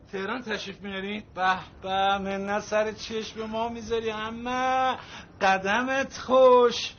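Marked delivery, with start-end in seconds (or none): 5.4-6.9 loud, slow, drawn-out welcome; effusive welcome. Acted. Man welcomes his visiting aunt, effusively. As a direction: stretch the welcome out generously.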